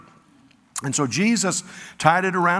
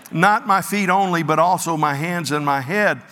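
Peter swinging to the other extreme; eager overcorrection; 3 dB louder than usual. Acted. Peter eagerly begs Jesus to wash all of him. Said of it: "goes from one end to the other".

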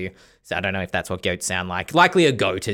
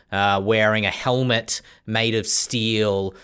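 scene narration; slower than usual. Acted. GM sets the scene.

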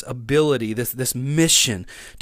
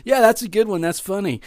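raised voice out of a forced chuckle; laughing it off; 6 semitones higher than usual. Acted. Hiding insecurity after a joke, laughing it off. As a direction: play along with a mock laugh. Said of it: "you kinda laugh it off".

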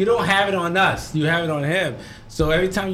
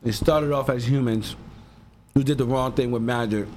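mouth full; 4 semitones lower than usual. Real, not acted. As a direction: still chewing while talking. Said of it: "I'm chewing".

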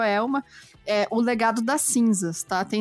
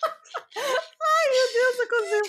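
high, giggling through the words; laughing uncontrollably; 14 semitones higher, slower than usual. Real, not acted. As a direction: talk while unable to stop laughing. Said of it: "eu consigo parar de rir".

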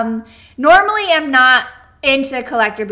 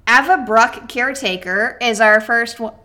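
talking through hiccups. Real, not acted. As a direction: speak with the hiccups. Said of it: "I have the hiccups".

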